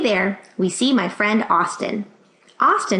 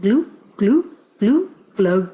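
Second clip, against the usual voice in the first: fish glugging. Acted. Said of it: "he mouths".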